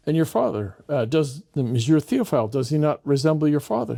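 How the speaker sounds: high, sing-song doting hostess; sweet hostess voice. Retold or imitated. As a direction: gush over the boy in front of guests. Madame Chameau performs for guests.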